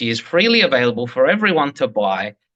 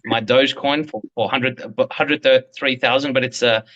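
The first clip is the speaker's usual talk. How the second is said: hammed-up braggart showing off his folder; mock Ripple boss; 2 semitones higher than usual.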